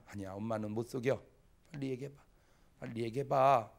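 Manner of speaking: earnest mother. Retold or imitated. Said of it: "이렇게 진지하게 얘기해서".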